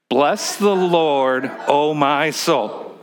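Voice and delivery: slow, sincere, from the heart; heartfelt blessing. Shown as a demonstration. Pastor modeling the verse for the congregation, slow and sincere. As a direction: say it like you mean it, slowly. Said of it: "say it with a heart that's, you just wanna bless the Lord".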